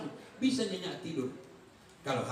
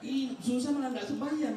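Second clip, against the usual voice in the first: mock amazement; 7 semitones higher than usual. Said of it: "saya bilang".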